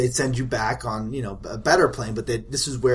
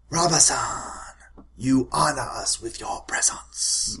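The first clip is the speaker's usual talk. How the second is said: village matriarch; 4 dB quieter than usual. Acted. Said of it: "and she's like".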